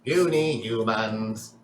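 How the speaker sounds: slow, droning robot villain; robot villain monologue. Acted. Mister Roboto gloating to captured heroes, slow robotic drone. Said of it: "Mister Roboto is still mid-monologue".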